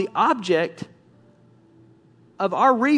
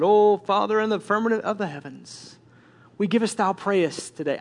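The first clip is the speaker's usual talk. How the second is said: mock formal church prayer; polished prayer. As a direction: put on a pious, affected praying voice. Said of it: "one of those polished prayer lives".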